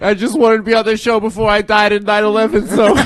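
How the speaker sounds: high, loud put-on caller; mock superfan caller. Cohost joins the sketch as a caller to Robin, high and loud. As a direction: gush like a crude radio fan.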